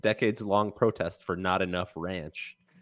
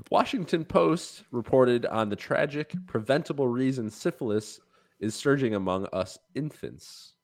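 newscaster voice. Acted. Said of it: "I can't be expected to do a newscaster voice".

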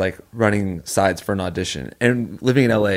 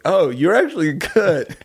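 pitched high and slow, genuinely caught off guard; a stunned, drawn-out compliment; surprised; 9 semitones higher, slower than usual. Retold or imitated. Friend hearing Rose's amazing audition, pleasantly shocked. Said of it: "I remember being like".

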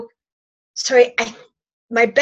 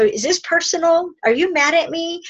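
raised, light questioning voice; higher gentle check-in; 5 semitones higher than usual. Shown as a demonstration. Asking a partner gently if they are upset, higher voice.

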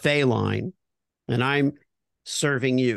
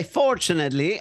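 put-on prompting in an Italian accent; 3 semitones higher than usual. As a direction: stretch FORTUNATELY out in an Italian accent, rising. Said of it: "Oh, now I'm gonna do Italian".

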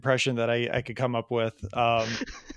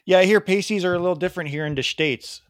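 raised, Wisconsin-sounding attempt at British; mock British accent; 5 semitones higher, 4 dB louder than usual. Host remarking to guest on pasties, in mock British accent. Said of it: "That's my best British accent".

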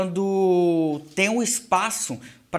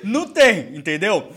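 high, loud, laughing speech; 5 semitones higher, 5 dB louder than usual. Real, not acted. Guest jokes that nobody here is handsome, laughing. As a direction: tease the table through laughter. Joking about looks at table.

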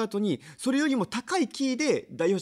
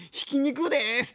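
mock stage shout; 6 semitones higher, slower than usual. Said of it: "大きな声で".

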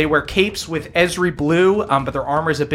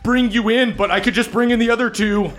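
higher, stammering appeal; nervous bargaining bully; 7 semitones higher than usual. Acted. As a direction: talk your way out of trouble, high and hesitant. Gifford bargains with Saul before the attack.

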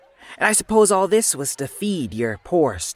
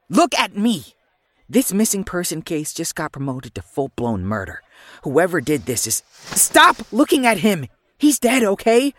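firm; 3 semitones higher than usual. Acted. Snapping partner out of shock.

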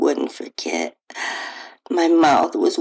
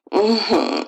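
short pleasured hum, a touch higher; moan; 4 semitones higher than usual. A narrator's reading. Lover tasting her, brief pleasured moan. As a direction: hum it through closed lips, enjoying. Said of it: "I heard his throaty moan".

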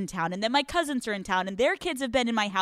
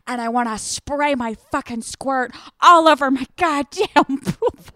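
shouted, hammed-up pool fantasy; loud comic rant; 8 dB louder than usual. Real, not acted. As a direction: belt it out, close to laughing. Ranting her pool fantasy after breaking up.

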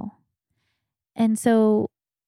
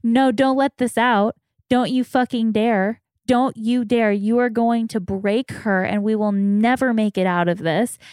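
angry inner voice; 2 semitones higher, 3 dB louder than usual. Retold or imitated. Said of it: "The anger is coming to go".

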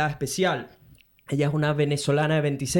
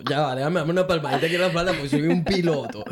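laughing boast; 2 semitones higher than usual. Real, not acted. Jokes about being a pilot.

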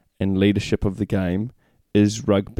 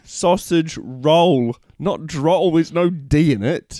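put-on "Sausage roll" said very slowly and higher, in a teasing Kiwi accent; mock Kiwi accent; 5 semitones higher, slower than usual. Correcting the Kiwi co-host in mock Kiwi accent. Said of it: "take the mick out of my".

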